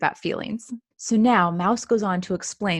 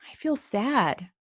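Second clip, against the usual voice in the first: 1 mild sad; slower than usual. Acted. Fox admits sadness.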